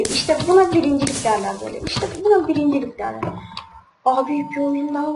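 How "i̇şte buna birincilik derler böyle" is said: fast, showy boast; proud bragging, quick and pushed; gloating. Real, not acted. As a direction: crow about the win. Gloating after winning.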